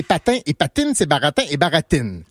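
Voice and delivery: patine and baratine with bare hard T; no hiss in patine or baratine; French T. Shown as a demonstration. Showing how France says it, patine, baratine with plain T. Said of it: "En France".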